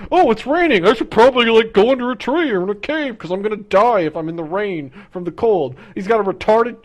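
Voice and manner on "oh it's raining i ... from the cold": voicing Charmander. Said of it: "It doesn't know, like".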